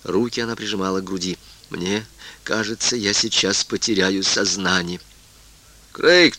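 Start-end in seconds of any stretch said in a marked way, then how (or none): 1.7-5.0 flat, slow, soft mechanical voice; drained voice, like a machine. Acted. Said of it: "бесцветным механическим голосом".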